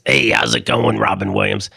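mock lisping Harvey Fierstein voice, pitched low; a hammed-up take on the flamboyant voice; imitating a gay man's voice. Dad explaining to his son, mocking the actor's voice. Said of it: "he talks like this".

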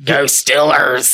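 mock cheer. Cheering for his team.

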